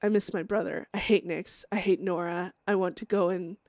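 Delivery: grim, brooding inner monologue; dramatic journal reading. Acted. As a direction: read it like a haunted diary entry.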